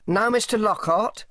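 lightly voiced timid underling. A narrator's reading. Underling questions Selby in the corridor, timidly. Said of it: "more timidly".

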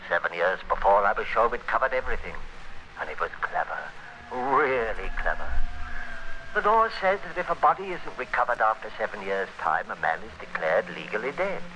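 measured first-person noir narration; hard-boiled radio narrator looking back; story narration. A narrator's reading. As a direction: tell it to the listener like a confession.

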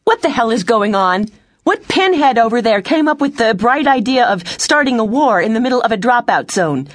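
high, heated demand; angry yelling. A narrator's reading. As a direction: chew out the commander. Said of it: "Elise yelled".

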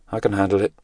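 usual speaking voice

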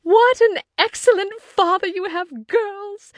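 very high, delighted exclamation; rapturous mother. A narrator's reading. Mother praises the father to her girls, in high rapture. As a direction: gush in a high pitch, easing off in volume.

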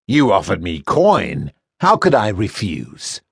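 mock the captive boy like a smug slaver; sneering first mate. First mate taunting the boy he sold, sneering.

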